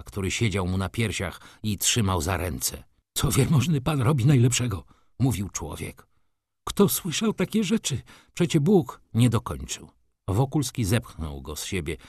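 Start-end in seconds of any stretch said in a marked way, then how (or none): 3.1-4.8 higher, hurried railwayman's voice; alarmed railwayman. Acted. Railwayman pins down a gentleman on the tracks, alarmed. 6.6-9.0 high-pitched, agitated scolding; shocked railwayman. Acted. Railwayman scolds the man he just saved, shocked.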